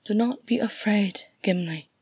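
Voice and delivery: sweet, mellifluous. Acted. Galadriel calms bewildered Gimli, sweet and mellifluous. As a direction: soothe him in a honeyed voice. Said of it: "in her sweet, mellifluous voice".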